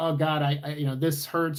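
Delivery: normal talking voice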